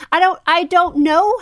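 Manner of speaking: loud, high-pitched bafflement; real exasperated confusion. Real, not acted. Exasperated over the name's pronunciation.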